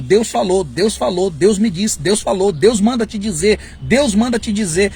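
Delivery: a touch of pompous repeated "Deus falou"; mocking showy prophet. Preacher mocking prophets' constant "Deus falou" claims. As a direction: parody the boastful prophet lightly. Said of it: "é muita ousadia".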